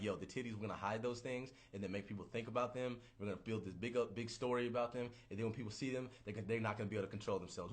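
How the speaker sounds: scheming inventor. Pretend. A scheming inventor plots how people will see titties, low and sly. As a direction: hatch the plan low and sly.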